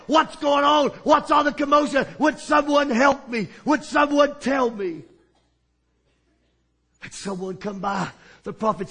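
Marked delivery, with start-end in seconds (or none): 0.1-5.0 a blind man's half-raised cry for help; confused call over the noise; mild yell. Acted. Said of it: "began to yell".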